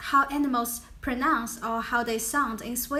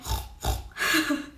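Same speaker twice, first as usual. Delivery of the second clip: pig snort; 3 semitones higher than usual. Shown as a demonstration. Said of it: "we say".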